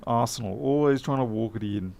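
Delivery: lightly mocked Cockney football banter; half-hearted Cockney impression; put-on Cockney. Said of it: "I'm gonna get Cockney neck".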